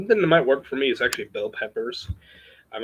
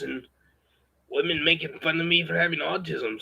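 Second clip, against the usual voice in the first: raised, strained put-on voice; put-on higher voice. Vlogger talking to viewers about women, in a strained put-on higher voice. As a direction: push the voice up higher than your own and hold it. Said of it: "I'm gonna have to break off this voice".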